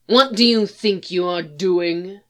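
curt, clipped demand. Acted. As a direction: bite off each word sharply. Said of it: "a clipped voice asked".

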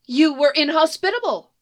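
lightly voiced haughty sorceress; haughty enchantress. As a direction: say it with your nose in the air. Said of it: "the enchantress says, her nose firmly in the air".

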